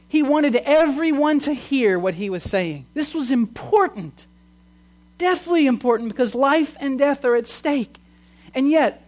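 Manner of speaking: high, emphatic pulpit delivery; urgent preaching. Real, not acted. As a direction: press it home with fervour. Preaches at full force.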